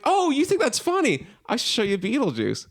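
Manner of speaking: high-pitched retold dad, egging on; dad's amused challenge. Dad to nervously laughing kid, mock challenge. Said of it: "And he's like".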